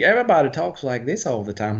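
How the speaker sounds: mock a movie Southern accent; Hollywood Southern accent. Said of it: "like that with Southern accents".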